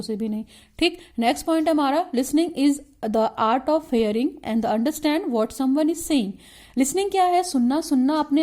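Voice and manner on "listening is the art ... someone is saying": reads the point out slowly, word by word; slow dictation. Shown as a demonstration. Teacher dictating a syllabus point to students, slow and measured.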